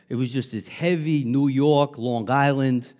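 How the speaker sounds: put-on heavy Long Island accent; New York accent. Shown as a demonstration. Pastor showing congregation his old accent, heavy New York. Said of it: "I can put it on".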